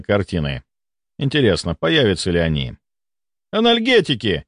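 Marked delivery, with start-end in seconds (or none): 3.5-4.4 high-pitched emergency order; urgent cry. A narrator's reading. Doctor orders painkillers, crying out urgently. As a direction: call urgently for medication. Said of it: "закричал Волконский".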